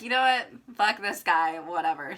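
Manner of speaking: mock exasperated dismissal; retold fed-up brush-off. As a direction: toss him off with a scoff.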